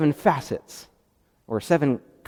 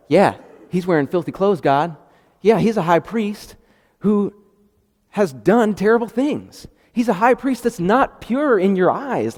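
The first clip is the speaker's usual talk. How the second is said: higher, louder sneering accuser voice; mocking accuser; 6 semitones higher, 4 dB louder than usual. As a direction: play Satan as a sneering tattletale, pitched up. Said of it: "And he's like".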